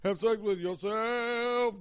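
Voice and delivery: slow, put-on bedroom voice; mock sultry. Repeating advice to single listeners, mock sultry. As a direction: purr it as a gag.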